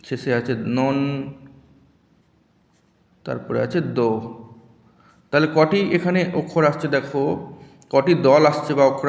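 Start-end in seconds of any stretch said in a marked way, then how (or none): 0.0-4.1 slow syllables. Shown as a demonstration. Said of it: "আস্তে উচ্চারণ করো".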